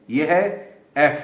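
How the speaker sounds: ایف said slowly with a sharp start, f pressed. Shown as a demonstration. Teacher demonstrates ایف, pressing the f. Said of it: "اس کو تھوڑا سا دبا کر، press کر کے بولنا پڑتا ہے".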